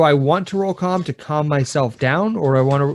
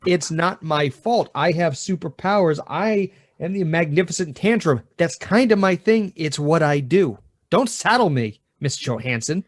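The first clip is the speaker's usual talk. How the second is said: lightly acted grandiose child; defiant four-year-old; 3 semitones higher than usual. Preschooler refusing teacher's demand to apologize, lightly defiant. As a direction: articulate little kid protesting with self-importance. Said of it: "You're such an articulate four-year-old".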